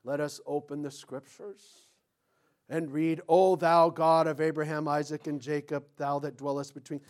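low, droning, reverent intonation; mock-solemn scripture reading. Imitating how some people read the Bible, mock solemn recital. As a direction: intone it piously without understanding. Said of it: "They read it like".

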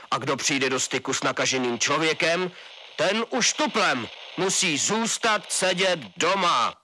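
colonel laying down orders to citizens; stern colonel on radio. A narrator's reading. Colonel addresses nation on radio.

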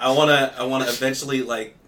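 normal talking voice

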